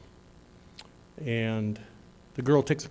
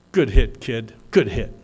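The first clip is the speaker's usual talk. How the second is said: louder encouraging good hit; cheering; 2 semitones lower, 8 dB louder than usual. Retold or imitated. Daughter congratulating the girl with artificial legs, cheering. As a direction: call it out to the runner.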